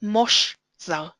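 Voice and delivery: Mosh zar with an o in Mosh; kametz as o. Shown as a demonstration. Teacher showing how kametz sounds, o in Mosh zar. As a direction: close "Mosh" on a short o, then "zar". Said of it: "sounds like an o".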